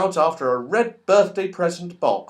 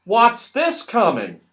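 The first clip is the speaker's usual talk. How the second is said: higher, wondering question; surprised; 6 semitones higher, 3 dB louder than usual. Acted. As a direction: sound amazed at what's coming. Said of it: "in astonishment".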